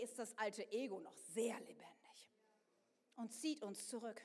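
low whisper of warning; hushed warning; whispered aside. Acted. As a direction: lean in and whisper it.

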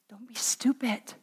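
very soft, breath-only whisper. Acted. The enemy whispers to the believer, whispered. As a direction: whisper it like a secret prompting. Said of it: "And he whispers".

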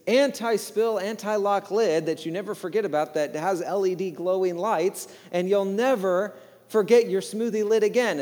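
bright upbeat pitchman voice; infomercial announcer. Retold or imitated. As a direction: sell it like a TV ad. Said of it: "it comes into full color".

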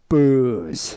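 drawn-out mock booing; imitated crowd boos. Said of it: "anytime anyone mentioned Trump, it was just, like".

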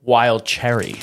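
hushed secret whisper. Real, not acted. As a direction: whisper it so nobody overhears. Answers quietly, hiding the answer.

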